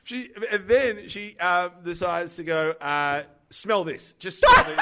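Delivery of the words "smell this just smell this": laughing through a quote. Retold or imitated. Retelling the masseuse to a friend, laughing. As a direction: quote the masseuse while cracking up.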